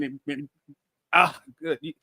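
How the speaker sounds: tripping over repeated words; stammer, words catching; stuttering. Real, not acted. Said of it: "you got me stuttering".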